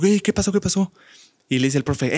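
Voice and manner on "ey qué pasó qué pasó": higher, feigned surprise; a hammed-up what-happened; mock innocent surprise. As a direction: act surprised, playing dumb. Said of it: "Entonces dijo".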